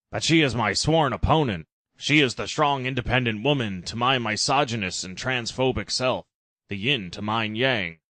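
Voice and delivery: a hammed-up Trump voice; objecting Trump. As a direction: argue she's his rival.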